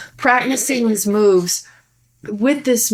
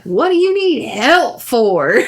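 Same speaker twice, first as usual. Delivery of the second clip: mock annoyed husband; 4 semitones higher, 5 dB louder, slower than usual. Husband snapping back.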